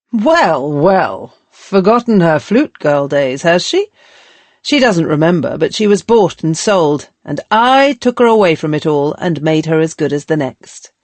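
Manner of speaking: mock the girl with a sneer; sneering old master. Master mocking the former flute girl, sneering. Epigraph quote read in character.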